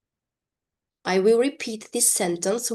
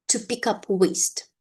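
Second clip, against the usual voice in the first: repeat-after-me model; 2 semitones higher than usual. Shown as a demonstration. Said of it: "you are to repeat after me".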